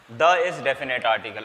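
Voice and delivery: very slow "The is definite article"; teacher dictating slowly; slow dictation. Shown as a demonstration. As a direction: spell out the rule for notes. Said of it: "stating the rule".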